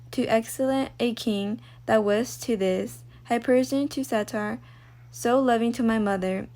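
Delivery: slow, measured verse reading; unhurried student recital with frequent breaks; soliloquy recitation. Acted. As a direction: read Shakespeare aloud slowly, pausing between phrases. Reads Hamlet soliloquy aloud.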